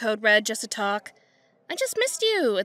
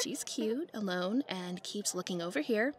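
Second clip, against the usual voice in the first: hushed; 9 dB quieter than usual. Acted.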